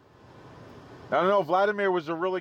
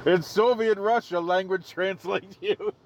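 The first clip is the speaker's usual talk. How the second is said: mock Russian accent for a punchline; joking Russian accent. Host cracks a Soviet Russia joke, light Russian accent. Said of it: "My accent?".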